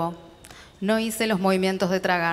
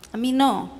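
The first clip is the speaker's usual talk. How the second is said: mild implore; 4 semitones higher than usual. Acted. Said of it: "imploré".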